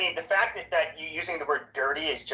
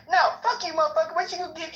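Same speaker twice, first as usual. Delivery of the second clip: much higher-pitched mock retort; imitated street sass; 12 semitones higher, faster than usual. Woman cusses back at the guy in the car, mock street sass. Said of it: "she's being all ghetto and black".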